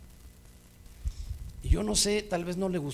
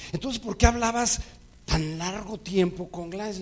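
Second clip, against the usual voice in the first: put-on higher, louder, the jealous girlfriend demanding answers; jealous accusation; 5 semitones higher, 4 dB louder than usual. The preacher voices his jealous date confronting him, louder. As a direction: push it like a suspicious girlfriend.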